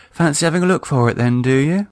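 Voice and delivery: a coy come-on; playful flirt to husband; flirty offer. Acted. Wife flirting.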